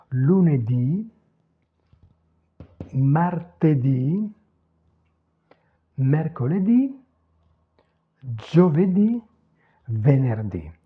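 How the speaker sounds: each day, "Lunedì" to "venerdì", accented on the last ì; careful Italian list, "giovedì" ending on stressed ì; stressed final I, unlengthened. Shown as a demonstration. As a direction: dictate "martedì" and the rest one by one, stressing DÌ. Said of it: "Pas d'allongement vocalique".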